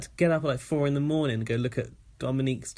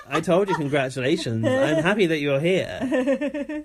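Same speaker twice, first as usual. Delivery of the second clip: imitating Elena; 3 semitones higher, 4 dB louder, slower than usual. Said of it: "Elena's like".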